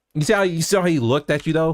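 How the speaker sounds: ordinary talk, nothing marked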